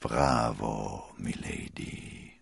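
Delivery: low, slow, satisfied murmur; hushed private praise. A narrator's reading. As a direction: murmur it under your breath, drawn out. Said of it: "murmelte er".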